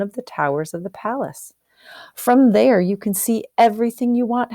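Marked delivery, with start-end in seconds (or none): 2.2-4.5 louder, higher and fast, grand proclamation; the wind announces it proudly; booming wind voice. Acted. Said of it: "the wind speaks to Half Chicken".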